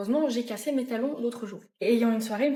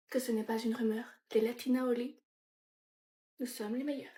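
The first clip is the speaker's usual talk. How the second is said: soft, hushed Latino seductress; Latino accent; 5 dB quieter than usual. Acted. Natalia seducing someone, soft Latino accent. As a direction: purr it softly in a put-on Latino accent. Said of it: "Avec un petit accent latino".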